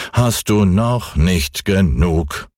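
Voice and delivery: ein Hauch von altem, geduldigem Mond; milde, gelassen mahnend; gutmütiger Mond. Acted. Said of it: "sagte der gute alte Mond". (leicht gespielte Mondstimme)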